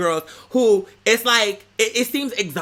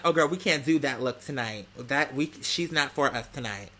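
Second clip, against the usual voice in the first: hushed snooty quote; 4 semitones lower, 5 dB quieter than usual. Retold or imitated. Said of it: "she had said something like".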